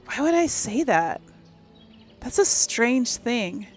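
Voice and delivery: real bewildered protest; baffled. Real, not acted. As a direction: question it loudly, then slow right down. Baffled by odd dialogue option.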